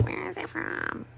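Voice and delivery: high, breathy imitation of a curious stranger; curious asker. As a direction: lightly mimic someone asking where it's from. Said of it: "in case somebody asks, like".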